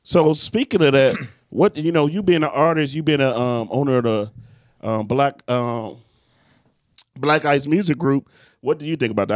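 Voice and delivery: talking while chewing gum. Real, not acted. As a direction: gum in the mouth, words a bit thick. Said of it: "I got gum in my mouth".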